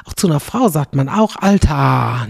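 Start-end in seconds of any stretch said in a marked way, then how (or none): 1.4-2.3 "Alter" said like "Altar" without the R; "Alter" with a loud, long open final A; drawn-out Alter. Shown as a demonstration. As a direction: stretch "Alter" into a long "al-TAA". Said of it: "also Altar ohne R".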